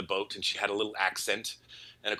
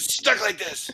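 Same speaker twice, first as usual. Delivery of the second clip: higher hammed-up moan; playful overacted complaint; mock whine; 10 semitones higher, 4 dB louder, slower than usual. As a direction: whine it like a put-upon worker.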